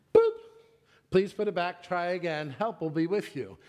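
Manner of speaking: lightly imitated checkout machine; a hint of self-checkout announcement. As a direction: recite it like an automated prompt. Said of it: "And it says".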